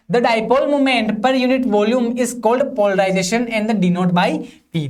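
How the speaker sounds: slow, even reading for students to copy; slow dictation. Shown as a demonstration. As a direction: dictate each word slowly so they can write. Reads the definition out for notes. (धीमे-धीमे notes लिखवाना)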